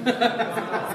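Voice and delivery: real burst of laughter. Real, not acted. Friend shows off her earrings on camera, real laugh.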